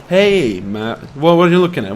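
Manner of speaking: loud, challenging call-out; mock confrontation. Player taunting a game enemy, loud mock challenge. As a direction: square up to a foe, half joking.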